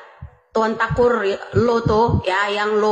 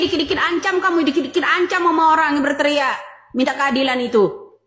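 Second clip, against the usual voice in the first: high-pitched, indignant scolding; worked-up, raised-pitch protest; indignant rant; 5 semitones higher than usual. Real, not acted. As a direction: rail at them for threatening people. Heated rebuke of threats.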